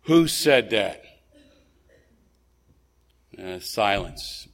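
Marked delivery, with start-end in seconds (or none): 0.0-1.0 loud slow roar. Retold or imitated. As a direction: roar the question out slowly. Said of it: "Khrushchev roared out".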